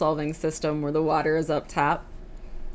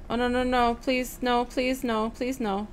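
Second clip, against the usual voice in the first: high, pleading no's; anguished denial; 6 semitones higher than usual. Pretend. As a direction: beg them not to hurt you. Pleading as game enemies close in.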